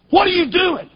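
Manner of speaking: high-pitched indignant question, retold; angry. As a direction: demand it as if confronting him, pitch jumping up. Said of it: "but instead I feel anger".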